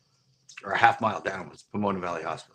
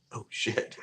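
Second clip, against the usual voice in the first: softer, breath-only retold gasp of realization; hushed realization; 5 dB quieter than usual. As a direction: say it under your breath as it sinks in. Same realization retold, quietly.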